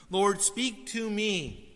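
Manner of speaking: very slow, drawn-out plea "Lord, speak to me."; slow earnest prayer. Shown as a demonstration. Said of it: "I don't know what to do".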